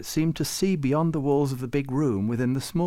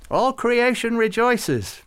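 slow, much higher, loud joyful cry; happy; 13 semitones higher, 6 dB louder, slower than usual. A narrator's reading. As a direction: proclaim it in delight. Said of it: "Farouk said happily".

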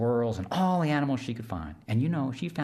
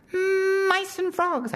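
very high, buzzing insect voice; high whiny mosquito, eager to help; tiny mosquito voice; 5 dB louder, much slower than usual. Acted. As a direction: squeak it like a little mosquito.

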